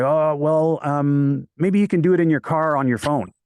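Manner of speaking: a light, breezy mock of the client. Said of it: "And he's like".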